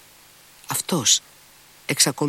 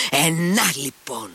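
wild anger; 6 semitones higher, slower than usual. A narrator's reading. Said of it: "με άγριο θυμό".

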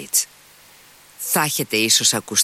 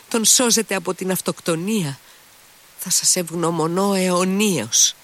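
much higher, fervent moved exclamations; overwhelmed with gratitude; 8 semitones higher than usual. A narrator's reading. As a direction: pour out thanks as if rescued. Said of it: "φώναζε πολύ συγκινημένος". (έξαλλη ευγνωμοσύνη, πολύ ψηλά)

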